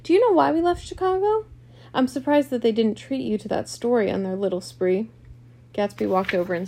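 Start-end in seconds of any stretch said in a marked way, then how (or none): 0.0-5.1 loud, high-pitched scornful challenge; cutting scorn, starting high and loud; thrilling scorn. A narrator's reading. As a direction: throw the question out with contempt. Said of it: "filled the room with a thrilling scorn".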